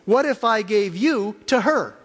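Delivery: voice of God. Retold or imitated. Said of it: "And he said".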